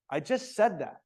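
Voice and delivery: mildly annoyed snap; a touch of a teacher's irritation. Shown as a demonstration. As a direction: let a little impatience show. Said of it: "Don't you know that I'm annoyed?".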